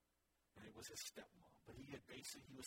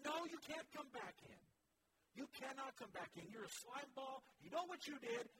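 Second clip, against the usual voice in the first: harsh rejection; 9 semitones higher, 7 dB louder than usual. Retold or imitated. Church rejecting the repentant man.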